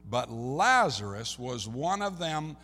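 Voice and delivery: slow, emphatic Bible reading; preacher's measured verse reading; scripture reading. Acted. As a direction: read the verse out slowly, word by word. Reads scripture aloud slowly.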